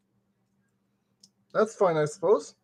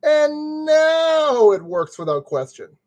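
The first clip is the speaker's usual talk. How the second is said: proud boast; 6 semitones higher, 5 dB louder, slower than usual. Real, not acted. Triumphant declaration.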